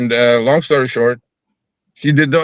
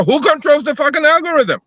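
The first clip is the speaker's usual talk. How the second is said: retold outrage; 12 semitones higher than usual. Retold angry question.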